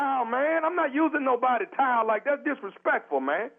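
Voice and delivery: offended, voice climbing high. Acted. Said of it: "but lower your voice".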